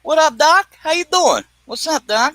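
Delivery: high cartoon rabbit voice; chirpy wisecracking cartoon rabbit; doing Bugs Bunny by accident. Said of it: "I wasn't trying to be Bugs Bunny".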